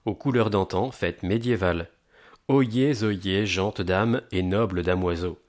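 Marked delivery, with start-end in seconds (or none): 2.5-5.4 slow, proclaiming medieval herald call; town crier. Acted. Medieval fair announcement opening.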